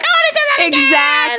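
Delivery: put-on very high, squealing child voice; thrilled kid. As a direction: imitate an excited kid begging for another ride. Voices kid eager to ride again.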